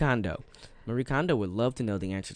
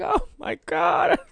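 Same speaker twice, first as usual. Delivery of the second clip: shocked whisper; 4 dB louder, much slower than usual. Retold or imitated. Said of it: "I was like".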